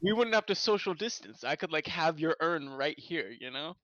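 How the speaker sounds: tinny, bad-quality microphone; cheap usb mic. Real, not acted. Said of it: "your terrible mic quality".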